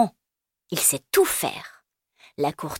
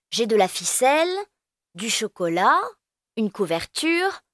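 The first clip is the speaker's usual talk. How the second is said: higher, proudly listing treasures; proud child; 4 semitones higher than usual. Acted. Elio proudly showing his treasure bag to friends. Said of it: "Elio, tout fier".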